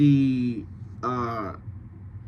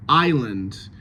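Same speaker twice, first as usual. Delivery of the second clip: "island" as EYE-lund; usual scansion; 2 semitones lower than usual. Shown as a demonstration. Coach corrects changed scansion, usual stress. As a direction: stress first syllable of "island", weak second. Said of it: "we're changing the scansion of that word".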